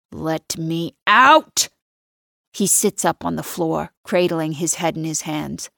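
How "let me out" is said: 1 demanding shout. Acted. Trapped man demands release.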